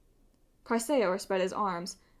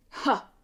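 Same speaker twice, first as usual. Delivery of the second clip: scornful laugh; 4 semitones higher, 4 dB louder than usual. A narrator's reading. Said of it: "Chrysaor said".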